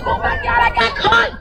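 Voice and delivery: high, laughing pretend fright; mock scared. Teacher pretending a child bear caught her, mock scared.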